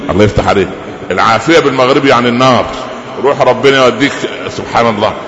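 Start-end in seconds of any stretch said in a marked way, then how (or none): 0.1-4.1 offended translator. Retold or imitated. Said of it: "بالكويتي مش بالمغربي".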